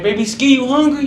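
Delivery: high, loud call across the house. Retold or imitated. Uncle calling his nephew to eat, loud call. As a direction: call him from the kitchen.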